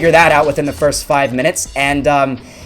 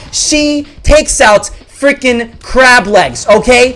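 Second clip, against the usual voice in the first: exasperated disbelief; 8 semitones higher, 4 dB louder, slower than usual. Real, not acted. Outraged at crab legs on bus.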